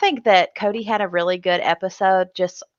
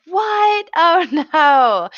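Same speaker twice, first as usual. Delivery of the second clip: a much higher yelp of "What?" then a laughing "no"; mock shocked; 7 semitones higher, 3 dB louder, much slower than usual. Danny and Nicole hearing the creepy voice, mock shocked. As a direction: squeal in disbelief, then laugh. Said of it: "both of them are like".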